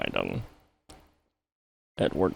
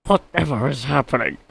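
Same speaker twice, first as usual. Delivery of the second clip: high, louder flustered cry; high startled truck voice; 11 semitones higher, 6 dB louder, faster than usual. A narrator's reading. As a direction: squeak out in alarm.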